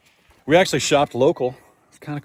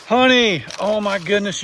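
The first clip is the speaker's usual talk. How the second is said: cooing; 7 semitones higher than usual. Real, not acted. Cooing to a heifer.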